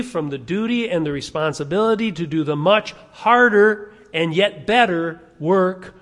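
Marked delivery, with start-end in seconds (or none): 4.1-5.9 "work" drawn out slowly with weight; stress on work. Real, not acted. Preacher stressing the hard job of peacemaking, emphatic "work". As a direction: lean hard and slow on the word "work". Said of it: "I emphasize the word work".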